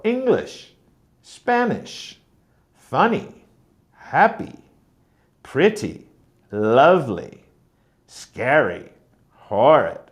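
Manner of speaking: adjectives from "English" to "horrid", each strong then weak; first-syllable stress. Shown as a demonstration. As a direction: stress the first syllable of "English, Spanish, funny" and each word after, letting the second drop. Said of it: "All of these follow that pattern".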